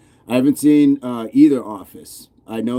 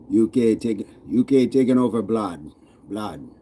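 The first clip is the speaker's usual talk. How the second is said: put-on practising a rough British-Jamaican accent. Streamer rehearsing UK slang, British-Jamaican accent. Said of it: "I'm working on it".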